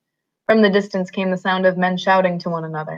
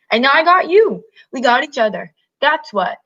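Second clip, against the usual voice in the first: triumphant; 3 semitones higher than usual. Acted. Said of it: "Lenny cried in triumph".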